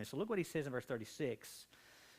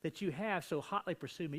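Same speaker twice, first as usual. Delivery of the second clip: raised, heated preacher voice, higher; Jacob's indignant outburst at Laban; Jacob lashing out; 8 semitones higher than usual. Retold or imitated. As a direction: lash out at Laban with rising heat. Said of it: "his voice intensifying as he's, he's lashing out".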